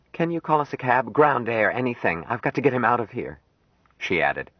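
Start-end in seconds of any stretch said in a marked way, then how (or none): 0.1-3.4 put-on young woman's voice pitched higher, anxious and pressing; lightly voiced Jill, urgent. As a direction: ask for a cab like a worried young woman.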